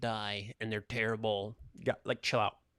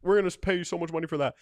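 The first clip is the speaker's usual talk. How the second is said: mock producer; 7 semitones higher, 7 dB louder, much faster than usual. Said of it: "Americans were like".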